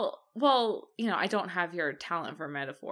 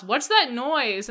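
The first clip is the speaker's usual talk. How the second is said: loud, high, drawn-out call; calling across house; 6 semitones higher, 6 dB louder, slower than usual. Retold or imitated. Husband calling to his wife from across the house, raised voice. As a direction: project it slowly to another room. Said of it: "He would call from across the house".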